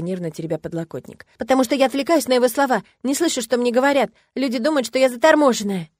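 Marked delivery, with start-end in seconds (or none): 1.4-5.9 higher, louder agitated complaint; upset girl. A narrator's reading. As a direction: pour it out in distress. (взволнованная жалоба девочки)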